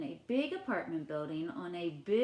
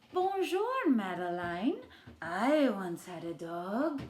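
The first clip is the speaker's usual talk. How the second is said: French baker. Acted. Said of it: "the way he says hello".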